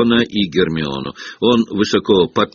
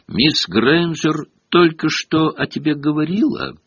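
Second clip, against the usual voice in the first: snide whisper; 7 semitones higher than usual. A narrator's reading. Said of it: "с ехидным видом шепнул".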